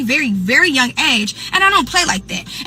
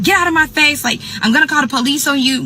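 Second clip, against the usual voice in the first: retold pissed-off outburst; 3 semitones higher than usual. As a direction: imitate a mad friend snapping back. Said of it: "mad, like, pissed".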